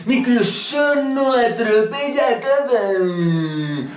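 high, slow mock indignation; hammed-up fanboy rage against Microsoft; mocking outraged voice. (voz burlona de indignación exagerada)

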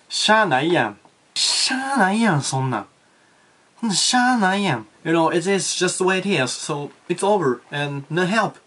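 resigned Osaka brush-off, pitch swinging; sweeping Osakan attitude. Shown as a demonstration. Teacher showing how Osakans accept things, sweeping brush-off. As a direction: wave it away as an Osakan would. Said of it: "こんな感じです".

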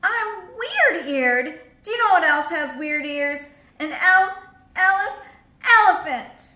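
loud, high, slow sobbing wail; hammed-up hippo weeping. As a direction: stammer it out through tears. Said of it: "Weeps and all, she finished".

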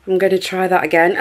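laughing through tears; half laugh, half tears. Real, not acted.

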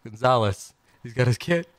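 talking with hiccups; hiccuping between words. Real, not acted. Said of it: "Oh, I got the hiccups".

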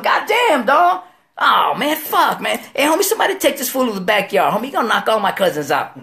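exasperated protest. Acted. Man tells homie to stop knocking cousins out, exasperated protest. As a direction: complain loudly to stop the damage.

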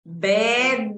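"bed" with a clearly sounded final d; marked word ending. Shown as a demonstration. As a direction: release the d at the end of "bed". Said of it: "Siempre la terminación es importante".

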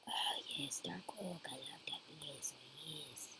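low soft breathy delight; whispering. Pretend. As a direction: whisper it lovingly, low and hushed. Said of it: "Sorry about my weirdness".

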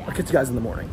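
tired, hoarse voice; worn-out hoarse voice. Real, not acted. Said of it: "my voice is cooked".

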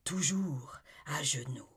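ardent, rising to a cry on her name; impassioned lover. Acted. Olivier declaring his love to Amy, ardent. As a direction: pour out his devotion to her.

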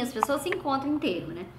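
usual speaking voice

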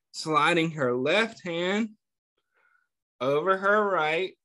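put-on reading a picture book aloud to kids, a touch lively; story narration. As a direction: tell the story gently to a class of children. Teacher reads picture book aloud.

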